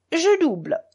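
high, insistent call to raise the stake. A narrator's reading. Mitya doubles after losing, calling out high.

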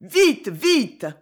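loud, high, pressing repeat; urgent hurry. Acted. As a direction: drag her along, urging. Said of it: "en répétant".

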